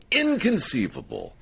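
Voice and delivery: lightly voiced movie exclamation; Wallace Shawn. Quoting Wallace Shawn in Princess Bride, lightly mimicked. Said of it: "when Wallace Shawn says".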